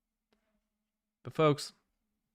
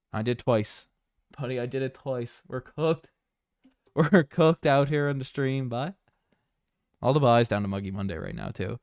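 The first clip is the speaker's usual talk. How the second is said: hammed-up Newfoundland accent; 3 dB louder than usual. Streamer ribbing the boys on stream, Newfoundland accent. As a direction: chat like a Newfoundlander, playfully. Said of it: "I'll start talking in a Newfoundland accent".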